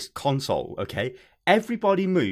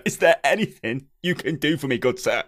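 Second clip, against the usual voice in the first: measured ye olde English question; Victorian English gentleman. Acted. Customer repeating his plea for help, measured Victorian English. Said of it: "a ye olde English Victorian-y style".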